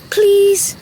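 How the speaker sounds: eager pleading. Acted. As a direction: beg sweetly for the story. Child begs for a story.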